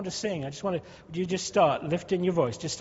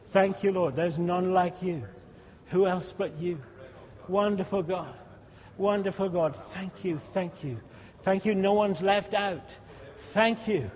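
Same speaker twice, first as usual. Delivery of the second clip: model praise; slower than usual. Shown as a demonstration. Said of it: "just start to speak".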